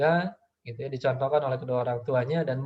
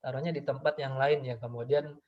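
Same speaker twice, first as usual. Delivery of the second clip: put-on softer, tender apology to the child; gentle apologizing parent; 4 dB quieter than usual. Parent gently apologizing to the child about the jug, tender. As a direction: soothe the kid, no blame. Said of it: "kata orang tua".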